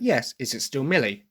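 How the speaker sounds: usual speaking voice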